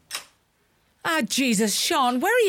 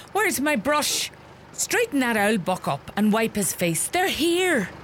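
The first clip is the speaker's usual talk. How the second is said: flustered hurry; 3 semitones higher than usual. Acted. Rushing before the visitors enter.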